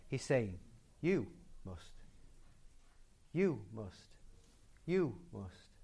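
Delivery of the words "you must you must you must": "You" stressed, then a separate, softer "must"; emphatic YOU. Shown as a demonstration. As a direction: lean on "You", set "must" apart. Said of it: "And it's emphatic".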